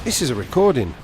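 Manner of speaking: understated moment of realisation; dawning realisation. Retold or imitated. Caller realising the prank, understated realisation. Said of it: "And I thought".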